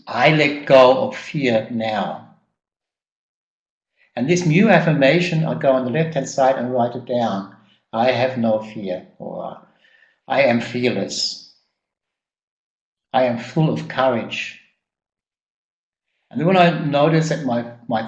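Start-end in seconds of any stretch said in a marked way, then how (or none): 0.1-2.2 slow, gentle and clear; loving affirmation. Shown as a demonstration. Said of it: "a loving but clear voice". 7.9-14.6 slow, gentle and clear; slow loving affirmation. Shown as a demonstration. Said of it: "And, and slow".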